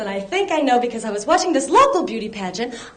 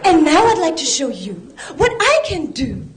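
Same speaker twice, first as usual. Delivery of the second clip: spokesmodel voice; 3 semitones higher than usual. Retold or imitated. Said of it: "those T V spokesmodels".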